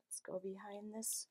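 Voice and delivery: hushed conspiratorial whisper. Acted. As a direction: whisper to build suspense. Suspense before next door.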